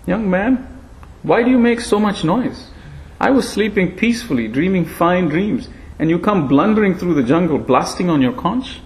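high, frail voice of an ancient monkey; frail breathless old person. Acted. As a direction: speak like a thin, frail old sage. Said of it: "In a frail voice he said".

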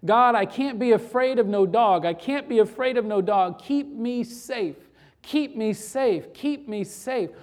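mildly pleading retold prayer, slowing at the end; praying. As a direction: repeat it like an earnest retold plea. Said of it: "she was praying the same prayer".

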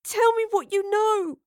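high, slow, fierce demand; hissed. A narrator's reading. Astrid to the old woman, hissed demand. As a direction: demand it slowly, high and intense. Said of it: "Astrid hissed at the old woman".

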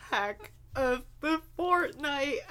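slow, laughing mock-announcer call; segment announcement. Co-host introducing the weekly segment, mock-announcer voice.

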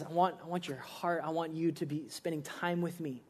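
hushed, heartfelt invitation; tender divine appeal. Acted. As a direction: gently voice Jesus asking for closeness. Voicing Jesus speaking tenderly.

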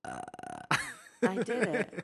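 slow, croaky after a burp; just burped. Real, not acted. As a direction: squeeze "I did it." out around a burp. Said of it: "opened a really old library door".

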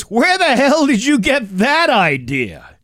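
high-pitched incredulous outburst; mock the guide's affronted comeback; indignant retort. Camp guide rebuffs a parent's question, indignant.

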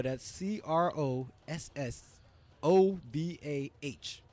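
slow letter-by-letter spelling: C R O S S O V A H; spelled out. Shown as a demonstration. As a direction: read C R O S S O V A H slowly, letter by letter.

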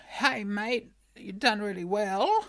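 lightly put-on New Zealand accent. Retelling the producers' call to her co-host, New Zealand accent. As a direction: quote them with a New Zealand twang. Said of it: "That's more New Zealand".

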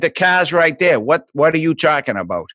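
put-on Boston accent with "car" as "cah". Boston kid repeating it for classmates, R-dropping Boston accent. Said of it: "You talk funny".

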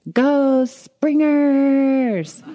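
loud, drawn-out cheer of friends; hammed-up crowd cheer from afar; cheering shout. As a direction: yell it out like a cheering fan. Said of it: "My friends walking by saying Springers".

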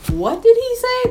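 high, drawn-out puzzled question; acted bafflement. Recalling not catching the actor's words, exaggerated high-pitched bafflement. Quotes own bafflement during film.

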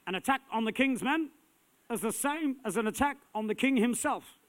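put-on a lousy, half-hearted Scottish accent, high and loud; hammed-up Braveheart Scottish accent; bad Scottish accent. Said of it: "the lousiest accent I've ever done".

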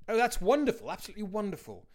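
high, delighted, warm reply. A narrator's reading. Old man answering the drunk in a high, warm tone. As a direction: greet his answer with real delight. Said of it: "the old man replied in a warm tone".

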